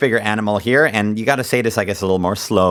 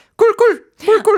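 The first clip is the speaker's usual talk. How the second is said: squeaky, very high, loud pig call; 5 dB louder than usual. Trying out the Korean word for a pig's sound: high-pitched pig sound. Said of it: "yours is so high pitched".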